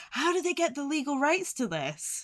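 high, puzzled mock question; baffled disbelief. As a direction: ask it like you can't believe your eyes. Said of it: "I spent a lot of this movie being like".

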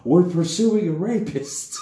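high, loud, drawn-out mock call; retold bluffing call. Character turns back to the guards, loud mock bluff. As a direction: call back over your shoulder, hammed-up. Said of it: "my character just turns back and is like".

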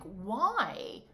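ordinary talk, nothing marked

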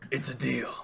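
lightly gruff villain voice; gruff Two-Face. Acted. Crime boss accepts after the coin toss, gruff. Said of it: "trying to do a gruff voice".

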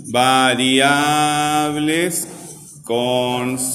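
"variables" and "constantes" stretched syllable by syllable; very slow, each syllable of "variables" and "constantes" held long; drawn-out dictation. Shown as a demonstration. Teacher dictates the next heading to class, drawn out very slowly. Spells it out slowly while writing.

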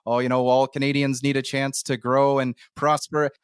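lightly put-on Canadian accent. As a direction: play a Canadian official with a Canadian accent. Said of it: "that's a good Engli-, uh, Canadian accent".

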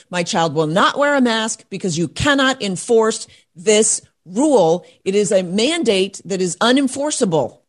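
emphatic, insistent declaration with punched key words; firm, indignant stand, hitting each demand; defiant protest. Acted. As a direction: lay down the law like a parent standing up to officials. Models parents standing up to officials.

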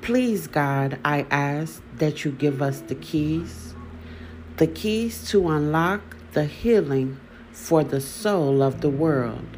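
measured poem reading with falling line endings; poem recitation. Acted. Host reads her healing poem to listeners, measured poetry recitation. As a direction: recite it line by line, pausing after each phrase.

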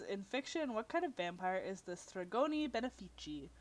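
a hint of Italian accent, read out. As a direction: lightly put on Italian accent. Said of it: "Like my Italian accent there".

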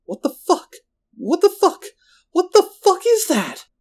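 high-pitched, panicked yell; loud freaked-out screaming voice; Marco yelling. A narrator's reading. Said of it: "screams and Marco yelling".

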